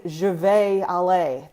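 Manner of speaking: 'vais'를 베이처럼 늘인 미국식 억양; 미국식 발음을 가볍게 되풀이; heavy American accent. Shown as a demonstration. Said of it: "That's a huge accent".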